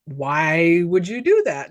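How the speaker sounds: low, drawn-out questioning; slow retold question. Joe questions the woman, slow and low. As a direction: quote him slowly and low, stretching the question. Retells Joe's question again, lower.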